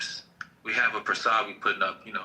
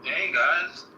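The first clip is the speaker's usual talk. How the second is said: white voice; 6 semitones higher than usual. Acted. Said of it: "I put on my white voice".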